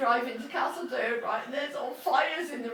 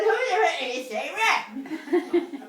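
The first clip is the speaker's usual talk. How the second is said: attempted Northern Irish accent; 3 semitones higher, much slower than usual. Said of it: "I can't do the Northern Ireland accent".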